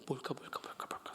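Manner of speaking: hushed whispering among the congregation. Retold or imitated. Congregation murmuring the riddle in a whisper. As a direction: whisper it, unsure and hesitant. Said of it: "속닥속닥 머뭇머뭇하고 있는 겁니다".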